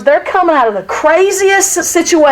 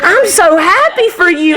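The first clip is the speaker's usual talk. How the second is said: drawn-out, gushing congratulations; genuinely happy; 2 semitones higher, slower than usual. Acted. Merciful person hearing of a friend's promotion, genuinely happy. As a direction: gush as if you truly mean it. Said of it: "and they mean it".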